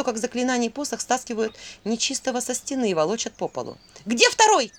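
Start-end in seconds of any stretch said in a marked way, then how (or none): 4.1-4.7 loud, much higher shout. A narrator's reading. Vasilisa yells at the grinning demon, loud shout. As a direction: yell the question at the demon. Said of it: "крикнула Василиса".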